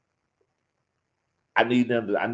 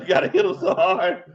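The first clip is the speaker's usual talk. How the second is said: laughing quote; 4 semitones higher, 3 dB louder than usual. Retold or imitated. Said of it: "there's this monologue in there".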